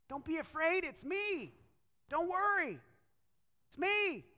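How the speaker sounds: high, reassuring call across distance. Acted. Jesus calling to the scared disciples on the water, calling out. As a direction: call out to frightened friends. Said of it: "he calls out to them".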